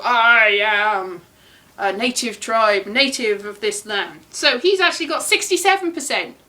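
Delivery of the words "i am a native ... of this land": slow, drawn-out mock proclamation; native tribe member. Vlogger playfully voicing an ancient native of Britain, mock proclamation. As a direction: draw it out like a lightly voiced tribesperson. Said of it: "You go".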